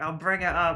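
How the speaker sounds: put-on loud yell in a Yorkshire accent. Retelling a staff member yelling through the delivery driver's phone: imitating a yorkshire accent yell. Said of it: "a Yorkshire accent just yell".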